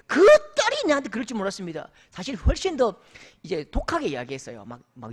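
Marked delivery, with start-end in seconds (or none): 0.1-1.9 mock outraged, louder and fast, stressing 딸이. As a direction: hammer 딸이 as the betrayed father. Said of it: "화를 내시는데요".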